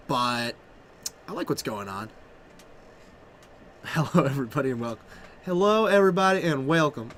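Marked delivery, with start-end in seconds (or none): 3.8-5.0 hushed half-voiced Evan Irwin attempt; quiet first try. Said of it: "any more Evan Irwin impressions". 5.4-7.1 lightly voiced caster greeting, Evan Irwin style; Evan Irwin impression. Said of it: "any more Evan Irwin impressions".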